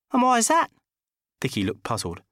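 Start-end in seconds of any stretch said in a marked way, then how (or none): 0.1-0.7 high, loud indignant question; seething. Acted. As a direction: demand it through clenched anger. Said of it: "I was seething".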